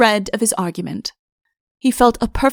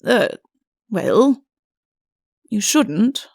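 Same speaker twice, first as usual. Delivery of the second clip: weak; much slower than usual. Acted. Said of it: "said Udo weakly".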